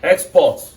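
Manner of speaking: "Export" as the noun, "EX-port"; stress on first syllable. Shown as a demonstration. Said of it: "The first stress is from the first syllable".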